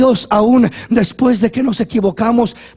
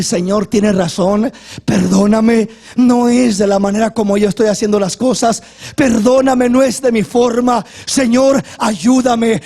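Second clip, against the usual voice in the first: humble prayer. Acted. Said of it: "y a decir".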